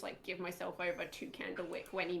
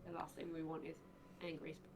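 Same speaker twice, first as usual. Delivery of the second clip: hushed, much softer aside; acted whisper; 9 dB quieter than usual. Player whispers to companion crouched beside him, hushed whisper. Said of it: "literally going to whisper to him".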